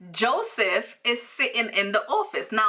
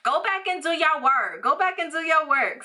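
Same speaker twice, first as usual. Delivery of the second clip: put-on Jersey Shore accent; 8 semitones higher than usual. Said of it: "she had her little accent".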